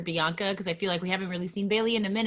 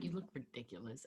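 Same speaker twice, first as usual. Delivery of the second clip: laughing aside; 9 semitones lower, 18 dB quieter than usual. Retold or imitated. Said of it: "and I was like".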